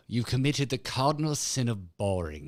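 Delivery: lightly voiced British game character; a hint of Emmett's British voice; Emmett impression. Shown as a demonstration. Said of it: "I get into Emmett by thinking of".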